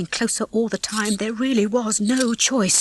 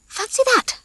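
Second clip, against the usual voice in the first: higher, relishing tease. Acted. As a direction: savour it, enjoying his panic. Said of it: "said Ginger with some relish".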